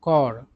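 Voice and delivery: "कॉर" said with no P or S sound; silent P and S. Shown as a demonstration. Teacher showing how corps is pronounced, "कॉर" with silent P and S. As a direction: say "कॉर", dropping the final P and S. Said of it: "इसका उच्चारण क्या होता है".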